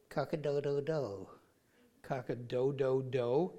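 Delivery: deflated rooster attempt; weaker rooster crow. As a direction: try the crow again but lamely.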